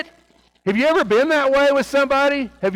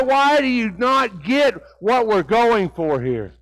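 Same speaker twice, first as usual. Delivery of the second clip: exasperated Jesus; 3 semitones higher than usual. Acted. Jesus scolding unteachable disciples, mildly exasperated. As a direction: push each you're with tired impatience. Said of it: "the frustration".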